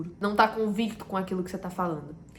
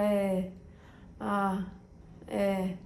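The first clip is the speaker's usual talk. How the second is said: hesitant fillers; 5 dB quieter, much slower than usual. Shown as a demonstration. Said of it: "É muito melhor do que você ficar".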